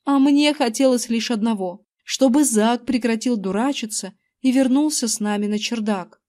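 plain reading voice

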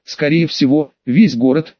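plain reading voice

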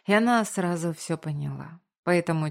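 usual speaking voice

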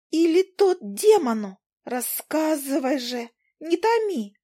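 tiny, very high, slow buzzy chatter; an eager little insect begging for gossip; Zhuzha the fly. Acted. Zhuzha the fly pestering Izi for news, squeaky and eager.

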